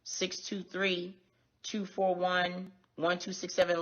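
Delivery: reads each digit out slowly and clearly; slow dictation. Real, not acted. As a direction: spell out the number slowly for viewers. Dictating phone number on live.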